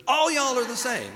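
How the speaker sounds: chuckling through the punchline; laughing repeat. Real, not acted. Preacher repeating his own joke to the congregation, laughing. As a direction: say it again while laughing at the joke.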